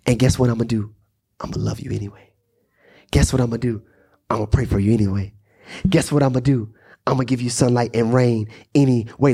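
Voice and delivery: low, measured promise to an enemy; God's calm reassurance. Acted. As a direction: drop the pitch and promise it steadily. God promises love to his enemy.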